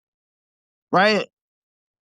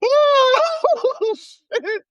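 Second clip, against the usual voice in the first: surprised. Real, not acted. Reacting after big laugh.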